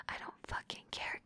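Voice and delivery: very soft, voiceless dismissal; dismissive whisper. Acted. Dominant dismissing partner's protest, whispered. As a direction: whisper the refusal.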